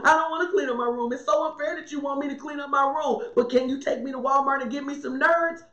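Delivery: put-on fast, complaining kid voice; preacher mimicking a child who won't clean up, fast whine; whiny child. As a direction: rattle it off like a sulking child. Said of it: "children are like".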